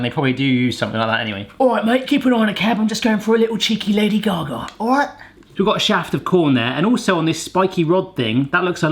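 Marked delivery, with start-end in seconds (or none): 1.6-5.1 hammed-up Cockney cabbie, higher and quick; jokey London Cockney lad; mock Cockney. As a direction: play a cheeky Cockney geezer. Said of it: "in Cockney rhyming slang".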